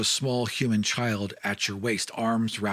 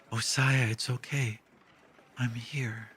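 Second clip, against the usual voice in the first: comforting. Acted. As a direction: soothe him gently as she holds his face. Woman comforts Josiah.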